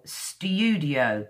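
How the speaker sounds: "studio" stretched on a long falling "yoo"; modern British "studio". Shown as a demonstration. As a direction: say "studio" slowly, syllable "styoo" drawn out. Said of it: "I speak modern British English".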